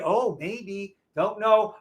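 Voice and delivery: a touch of timid, unsure mumbling; mock the scared trader, lightly; wimpy hesitation. Mocking a timid trader, mildly unsure. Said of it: "Do I trade wimpy?".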